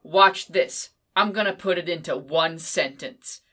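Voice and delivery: cocky, loud, teasing quote of the author; playful mock bravado; mock author boast. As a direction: boast like a showman about to do a trick. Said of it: "he does where he's like".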